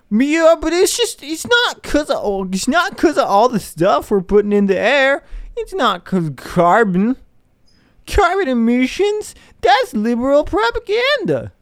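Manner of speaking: very high put-on voice, mocking; exaggerated high-pitched caricature of someone protesting; mock climate denier. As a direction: squeal it like a ridiculous denier. Mimics deniers in silly voice.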